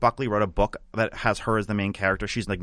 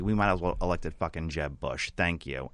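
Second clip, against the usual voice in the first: dry parting jab; 4 semitones lower, 4 dB quieter than usual. Retold or imitated. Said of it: "she was like".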